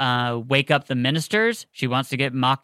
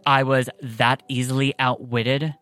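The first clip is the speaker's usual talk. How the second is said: ferocious queen; slower than usual. Acted. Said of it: "I wanted to play the ferocious Queen Makai".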